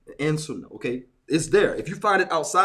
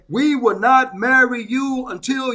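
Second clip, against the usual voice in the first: quoted refusal, raised and loud; firm mock decree; 3 semitones higher, 5 dB louder than usual. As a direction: lay down the rule like a stern official. Quoting the imams' refusal.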